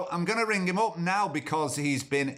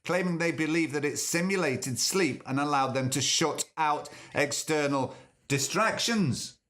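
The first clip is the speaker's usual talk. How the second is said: reading the article aloud; news read; 2 semitones higher than usual. Shown as a demonstration. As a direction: read it like a report. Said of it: "this is what they said".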